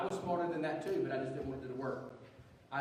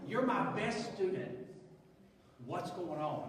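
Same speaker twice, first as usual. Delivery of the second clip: slow, drawn-out mock disbelief; teacher hamming up his shock to the student, slow; 2 semitones higher, slower than usual.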